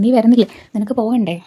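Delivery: lightly imitating an angry aunt; mock angry aunt. Aunt snapping at the girl who won't come, mild mock anger. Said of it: "ഇവർ ഇങ്ങനെ ദേഷ്യപ്പെടുകയാണ്".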